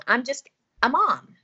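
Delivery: "mom" with a long open ah; American mom. Shown as a demonstration. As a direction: land on "mom" in American pronunciation. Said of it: "There's nothing wrong with being".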